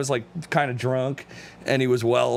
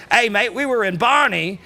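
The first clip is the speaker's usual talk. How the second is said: lightly imitated English accent, pitched up; a hint of Cockney English accent; 5 semitones higher, 4 dB louder than usual. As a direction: play an English bloke, lightly. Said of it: "when an English person says".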